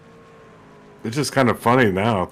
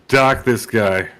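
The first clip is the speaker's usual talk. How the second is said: put-on playful Canadian accent, loud; 6 dB louder, slower than usual. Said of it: "You keep doing the Canadian voice".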